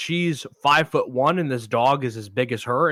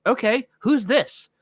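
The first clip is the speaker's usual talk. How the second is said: confused; 9 semitones higher, slower than usual. Retold or imitated. Confused woman sees wrong dog.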